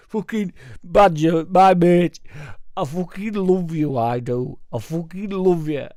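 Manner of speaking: put-on loud, high, slurry drunken mate gushing. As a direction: bellow it like a pissed-up mate with an arm round you. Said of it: "somebody go, arm round shoulder".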